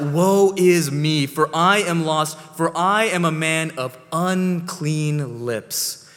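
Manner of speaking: a loud, slow, pleading woe; anguished cry. Retold or imitated. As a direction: cry it out like a man undone before God. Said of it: "cries out".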